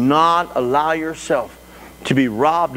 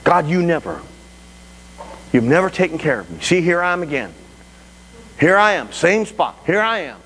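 mildly exasperated reproach to God; acted bitter complaint; 3 semitones higher than usual. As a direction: act out someone fed up with God. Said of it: "conversation that goes on like this".

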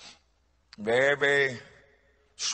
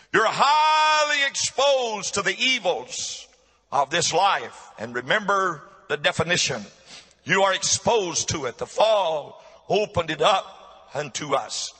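emphatic exhortation with soaring stressed words; forceful preaching. Real, not acted. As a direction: press the warning on the whole congregation.

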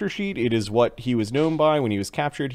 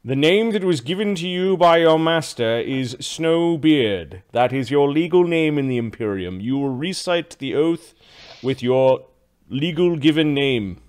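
lightly voiced official, measured and deliberate; official with book. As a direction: state it formally, as an official would. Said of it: "man with a book comes over".

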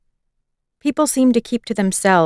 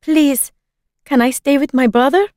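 pleading; 6 semitones higher than usual. A narrator's reading. Hannah begs to stay with brother.

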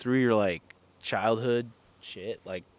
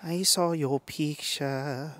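teasing mock voice; 6 semitones higher, much slower than usual.

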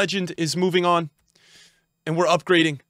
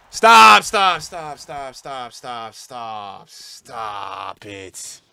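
stunned disbelief; 5 semitones lower, 7 dB louder, much slower than usual. Real, not acted. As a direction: start loud, let each repeat sink away. Stunned by what the pack shows.

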